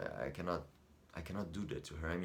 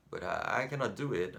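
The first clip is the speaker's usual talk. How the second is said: raised, high-pitched agitated refusal; helpless protest; 3 semitones higher, 6 dB louder than usual. Acted. Son admits he cannot defy his sick mother, helpless protest. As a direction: protest loudly that it's beyond you.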